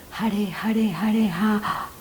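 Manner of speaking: the dying aunt's last whispered Hare, trailing off; faint last breath. Retold or imitated. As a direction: let the chant fade out on the final breath.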